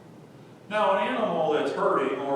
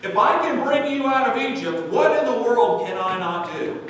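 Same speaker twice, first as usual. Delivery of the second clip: raised, pleading voice of God; 5 semitones higher, 4 dB louder than usual. Acted. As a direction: call them back like a pleading father. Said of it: "he says".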